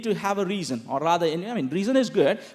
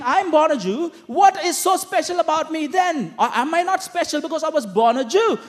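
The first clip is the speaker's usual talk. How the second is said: acted protest; 5 semitones higher than usual. Preacher voices indignant Jewish questioners.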